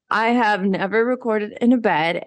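relaxed, talking from bed; easygoing, lounging in bed; lying down relaxed. Real, not acted. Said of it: "my first podcast recording in a bed".

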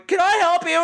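lightly voiced creepy man, high-pitched; a hint of a creep popping up; creepy brother. Creepy brother pops head up.

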